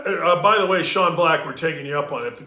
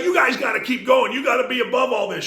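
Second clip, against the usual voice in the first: mock lady cop; 8 semitones higher, 3 dB louder than usual. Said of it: "she's like".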